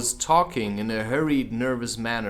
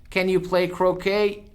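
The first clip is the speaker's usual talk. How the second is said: higher, louder far queen voice; imperious Queen; 7 semitones higher, 4 dB louder than usual. Acted. The Queen suddenly asks Alice about croquet. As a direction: demand it grandly.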